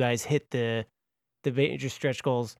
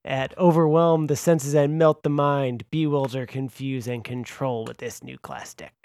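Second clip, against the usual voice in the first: radio announcer voice; 4 dB louder than usual. Pretend. Host selling the psionic class deck, radio voice. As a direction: build the list like a trailer, then settle. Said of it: "make you read them all that way".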